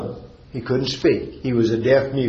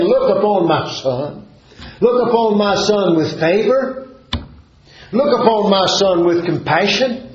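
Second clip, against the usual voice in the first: raised pitch, each plea lifting at the end; preacher voicing a father's earnest entreaty; crying out in plea; 5 semitones higher than usual. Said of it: "And he cried out".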